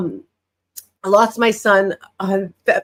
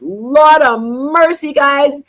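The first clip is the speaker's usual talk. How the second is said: normal talking voice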